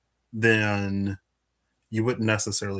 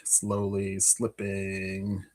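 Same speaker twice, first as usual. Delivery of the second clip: drawn out slowly; 5 dB quieter, much slower than usual. Shown as a demonstration. Acts out mask slowly slipping.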